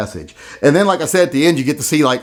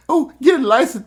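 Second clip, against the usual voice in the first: mock panic; 11 semitones higher than usual. Mocking protesters' panic.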